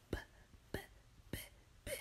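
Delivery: heartbeat thump imitation. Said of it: "it's like".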